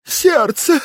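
faked heart attack cry; hammed-up clutching-the-chest cry; having a heart attack. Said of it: "Он притворно схватился за грудь". (притворный сердечный приступ)

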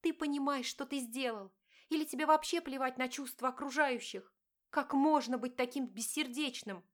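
wife confronting her cheating husband, pained; hurt wife. Acted. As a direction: plead and accuse at once.

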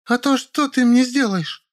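very high, slow taunt; snarling challenge. A narrator's reading. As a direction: dare him nastily. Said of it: "вызверилась Зайка". (злобный вызов)

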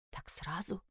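very soft, stunned repeat; hushed echoed question. A narrator's reading. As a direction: echo it back barely aloud, rising. Героиня растерянно переспрашивает его слова. (тихо, растерянно переспросить)

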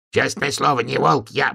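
high, anxious protest; pleading babble. A narrator's reading. Donkey backing behind the stove, high pleading. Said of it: "бормотал ослик".

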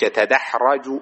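يتدحرج with an "a" after the r: yatadahraju; correct vowel. Shown as a demonstration. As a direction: say يتدحرج as yata-dah-RA-ju, fatha on the ra. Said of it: "ولا نقول يتدحرج".

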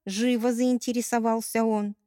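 ordinary delivery

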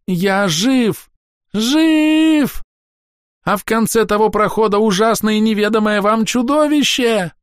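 very high, loud frantic cries; panicking elf shouting a warning. A narrator's reading. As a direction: scream that you are alive.

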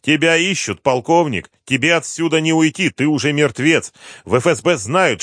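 high, loud smug threats; gloating general. Acted. General gloats to cornered colonel, loud. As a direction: press him to surrender.

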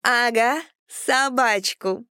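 slow, tipsy giggly drawl; drunk giggling. A narrator's reading. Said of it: "пьяно хихикала Ольга".

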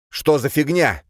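резкий испуганный выкрик; вскрикнуть от неожиданности; startled. Acted. Mark startled by fire. (испуганный выкрик)

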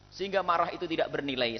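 ordinary talk

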